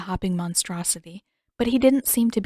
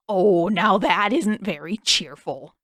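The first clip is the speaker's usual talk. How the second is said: eccentric king; 5 dB louder, slower than usual. A narrator's reading.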